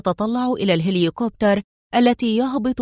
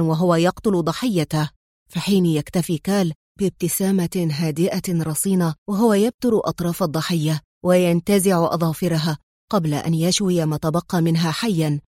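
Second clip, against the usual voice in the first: lightly voiced older man, slightly lower than narration; grave Bronco; 3 semitones lower than usual. Bronco warning Adham about Kal's cruelty and ambition, grave. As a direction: give a grim, measured account. Bronco's long account of the villains.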